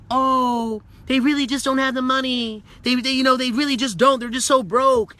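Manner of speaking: lightly voiced doubter pitying the broke; a hint of a sympathetic whine; mock excuse voice. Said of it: "We might be like".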